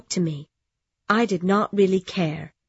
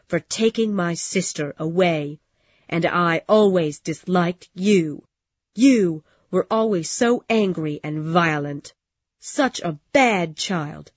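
hard and bitter. Acted. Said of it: "She laughed in a hard way".

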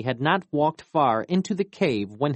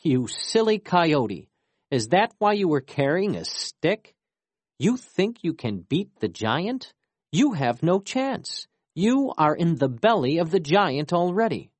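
mocking; 5 semitones higher than usual. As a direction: scoff at the foolish coyote. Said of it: "The woman laughed".

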